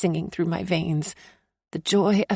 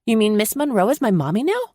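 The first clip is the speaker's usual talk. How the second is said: put-on excited child; 4 semitones higher, 5 dB louder, faster than usual. A narrator's reading.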